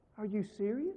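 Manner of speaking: gentle, soft, sweet, high voice. Retelling what she said when her smile turned to disaster, imitating a soft, sweet voice. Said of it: "in a soft, sweet voice, she said".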